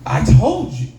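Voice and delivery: slow, rising preachy lecture; drawn-out, high-pitched sanctimonious telling-off; mock scolding. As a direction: lecture a crying kid with exaggerated righteousness. Mock scolding of crying sister.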